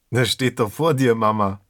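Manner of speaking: teasing with a grin in the voice; grinning. Acted. Son teasing his mother, grinning. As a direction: say it with a cheeky smile. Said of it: "grinste Markus".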